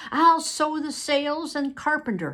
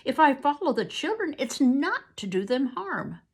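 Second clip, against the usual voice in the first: loud, much higher desperate denial; convincing plea; 9 semitones higher, 7 dB louder than usual. Acted. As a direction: cry out that you are innocent. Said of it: "He spoke convincingly".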